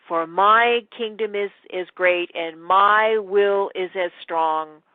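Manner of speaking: dramatic poem recital, slow and loud; reciting a poem. Retold or imitated. Sarah reciting her poem before the Goblin King, dramatic. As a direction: declaim it like a brave young heroine. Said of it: "and she says this poem".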